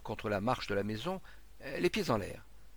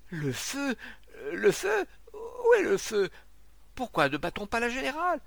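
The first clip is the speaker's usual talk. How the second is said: loud, very high alarm cries; frantic, high-pitched crowd; panicked shouting; 11 semitones higher, 5 dB louder than usual. Acted. Crowd panics about a fire.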